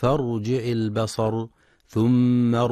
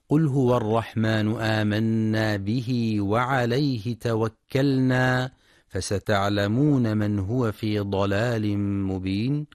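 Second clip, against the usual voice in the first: Quran recitation. Acted. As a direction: recite it as in tajweed class.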